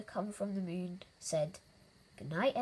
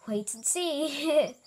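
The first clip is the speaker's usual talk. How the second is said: slow, teasing reply, higher and louder; chuckling; 6 semitones higher, 5 dB louder, much slower than usual. A narrator's reading. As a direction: draw it out with a touch of a chuckle. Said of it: "chuckled Elmer".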